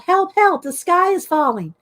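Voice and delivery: a storyteller's alarmed yell; yelling for help. Acted. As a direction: shout it out like the sky is really falling. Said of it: "she yelled".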